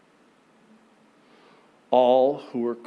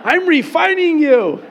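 shouting God; 13 semitones higher, 11 dB louder than usual. Acted. God answers over the wheel.

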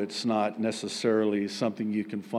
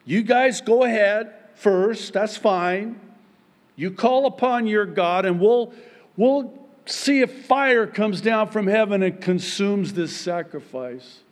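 louder, higher taunting challenge; Elijah taunting; 7 semitones higher, 5 dB louder than usual. Retold or imitated. Elijah challenging the prophets of Baal, loud cocky taunt. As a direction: throw down the gauntlet with bravado. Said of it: "And he's like".

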